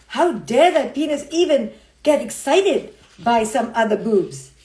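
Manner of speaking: exaggerated huffy protest; mock outrage. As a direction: play the scandalised jealous wife. Plays outraged possessive spouse.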